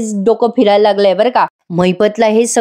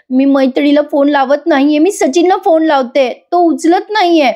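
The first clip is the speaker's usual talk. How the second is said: crying while speaking; 5 semitones higher than usual. Acted. Asmita to grandmother and mother, tearful and rising. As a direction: plead through tears, pitch rising. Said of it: "आता रडूनच बोलते".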